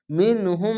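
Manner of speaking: মিনহুম chanted with held nasal hum; drawn-out nasal মিনহুম; tajweed recitation. Shown as a demonstration. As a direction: hold the গুণনা in মিনহুম. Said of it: "গুণনার নাম".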